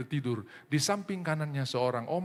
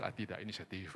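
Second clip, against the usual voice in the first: sheepish reply; 7 semitones lower, 13 dB quieter than usual. Acted. Dead man's sheepish reply.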